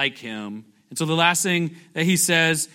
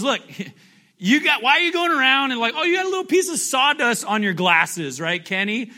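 higher, laughing mockery of a nitpicker; playful mocking jab; 6 semitones higher than usual. Preacher mimics Jesus teasing Kenny, laughing and higher. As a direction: tease the friend about the speck.

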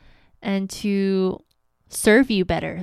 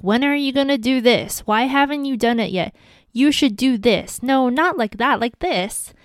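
mock nagging partner, a bit higher; 3 semitones higher than usual. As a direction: playfully imitate a nagging wife. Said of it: "would you want to be nagged".

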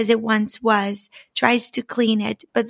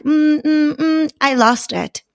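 stammering excuse; 5 semitones higher than usual. Acted. Wife stalling nervously as husband demands key. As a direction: stall and stumble over the lie.

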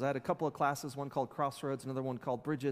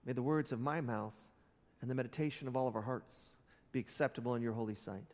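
prayer. Acted. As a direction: pray it gently over the congregation. Leads the congregation in prayer.

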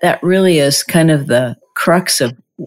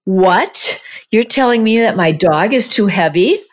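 mock disbelief; 4 semitones higher than usual. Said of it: "I could feel this".

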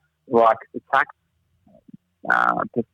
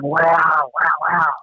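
mock awed kids, pitched up; amazed children; 5 semitones higher, much slower than usual. Kids staring at a hole on a tour, amazed. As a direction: imitate children gaping in wonder.

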